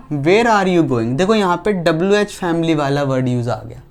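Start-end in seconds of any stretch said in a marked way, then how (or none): 0.1-1.2 1 slow dictation. Shown as a demonstration. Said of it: "inverted comma".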